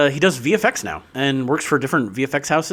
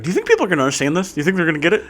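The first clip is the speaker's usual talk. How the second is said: imitating director; 4 semitones higher, much faster than usual. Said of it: "back scene for Zed Robinson going".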